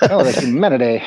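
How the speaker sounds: plain repeat through a laugh. Retold or imitated. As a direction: say it plainly, chuckling. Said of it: "the Hindenburg".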